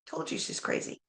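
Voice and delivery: unvoiced, hushed mock aside; whispered gossip. Gossiping friends whispering about her, hushed. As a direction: whisper it behind her back.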